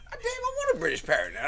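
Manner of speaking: excited. Real, not acted. Excited about British parrot.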